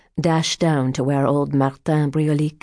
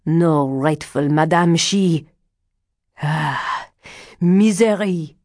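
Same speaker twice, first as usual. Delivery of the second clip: put-on agitated old fortune teller. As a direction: denounce her in swelling cries. Old card reader denounces the foreigner.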